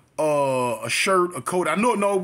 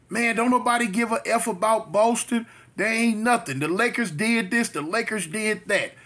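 higher-pitched, mildly worked-up retelling; imitated heated rant; 5 semitones higher than usual. Lakers fan arguing with a Celtics fan, mildly heated imitation. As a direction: mimic a fan getting heated, without shouting. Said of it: "She get heated".

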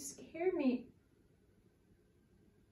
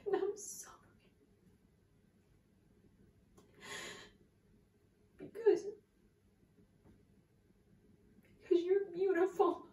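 tearful high-pitched apology; 7 semitones higher, 6 dB quieter than usual. Acted.

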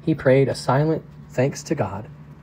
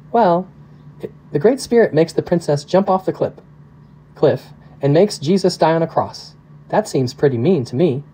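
put-on lightly raised pitch, a little girl's puzzled voice; a child puzzling over God; young girl; 4 semitones higher than usual. Little Missy asks her dad why God is mean, lightly voiced child.

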